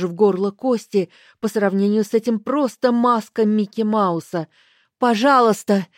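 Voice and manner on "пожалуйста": loud, higher desperate plea; terrified pleading. Acted. Героиня в ужасе умоляет старуху, громко и высоко. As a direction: beg for your life.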